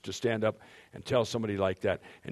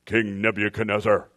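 louder booming voice from heaven; heavenly voice; 6 dB louder than usual. Shown as a demonstration. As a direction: boom the name down from the sky. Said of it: "That's my heavenly voice".

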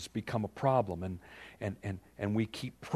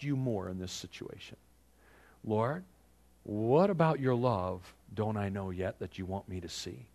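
humble prayer; 2 semitones lower than usual. Retold or imitated. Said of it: "say what?".

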